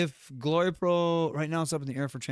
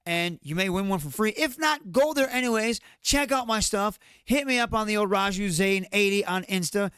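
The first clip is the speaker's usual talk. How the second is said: pitched-up hard-sell promo; wrestling promo; 4 semitones higher than usual. Pretend. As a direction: hype the shirts like a heel. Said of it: "I'll cut a promo for my t-shirts".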